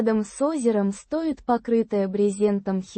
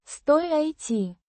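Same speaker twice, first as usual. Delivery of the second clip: Стой ай ти with the first syllable Стой said loudest; stress on first syllable; 4 semitones higher than usual. Shown as a demonstration. Tutor says the Russian verb for the learner, first syllable stressed. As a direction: lean on Стой, the rest of Стой ай ти light. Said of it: "with the stress on the first syllable".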